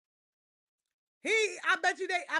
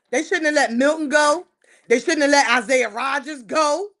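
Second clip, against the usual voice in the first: louder, stress on shouldn't; louder protest; 6 dB louder than usual. Real, not acted. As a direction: repeat it loud and pressing. Repeated louder.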